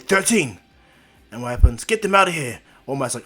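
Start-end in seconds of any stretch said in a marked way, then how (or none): 0.0-0.6 loud, raised shout to a colleague; urgent call. Retold or imitated. Teacher calls out in emergency. 1.8-2.6 loud, higher evacuation command; urgent order. Retold or imitated.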